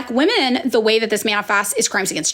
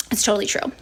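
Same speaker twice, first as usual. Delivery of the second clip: breathy conspiratorial whisper of agreement; 3 dB quieter, faster than usual. Real, not acted. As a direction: drop to a secret whisper. Whispered aside agreeing with herself.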